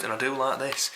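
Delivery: a touch of Yorkshire accent on "do like this"; slipping Yorkshire accent. Real, not acted. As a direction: let the Yorkshire accent slip out on "I do like this". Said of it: "Yorkshire accent came out a bit more".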